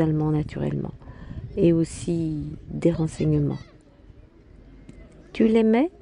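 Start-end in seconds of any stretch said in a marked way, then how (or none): 5.3-5.9 higher, tentative rising question; trembling voice. A narrator's reading. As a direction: ask it with a touch of tremor. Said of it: "d'une voix tremblante". (voix légèrement tremblante)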